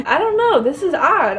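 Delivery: laughing it off through tears, high; a sudden self-conscious laugh; half-crying, half-laughing in disbelief; embarrassed laugh. Real, not acted. Embarrassed by her own tears.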